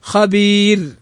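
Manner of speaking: thin final ر in خبير after a long ee; light ra. Shown as a demonstration. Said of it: "ترقق عند الوقف".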